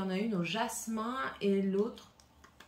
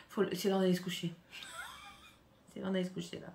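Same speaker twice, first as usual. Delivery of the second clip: mock bedtime scold; 2 semitones lower, 6 dB quieter, faster than usual. Mock nagging own wallet.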